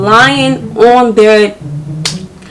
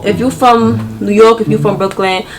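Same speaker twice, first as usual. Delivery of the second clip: ordinary talk, nothing marked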